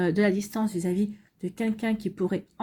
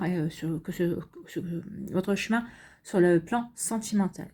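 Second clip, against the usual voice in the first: stumbling over words late at night; tired stammering; 3 semitones lower than usual. Real, not acted. Reader admits she stammers because it's late, tired stumbling. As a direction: trip over the words, worn out. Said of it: "je bégaye, mais il est un petit peu tard".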